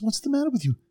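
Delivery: high-pitched mock yell at the community; retold yelling. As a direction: bark it at them like a pushy politician. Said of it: "He starts yelling at us".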